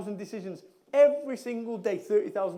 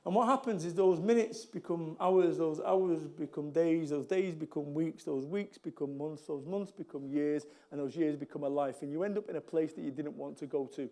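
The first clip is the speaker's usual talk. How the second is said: measured, sombre build-up; 6 semitones lower, 4 dB quieter than usual. Real, not acted. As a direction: let it sink lower and softer, step by step. List of time slipping away.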